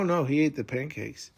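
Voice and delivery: usual speaking voice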